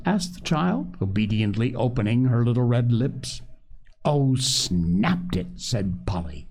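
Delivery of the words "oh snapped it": SNAPPED stretched out slowly for effect; emphatic telling. A narrator's reading. Sister telling how the chick ate, emphatic. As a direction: draw out "snapped" with relish.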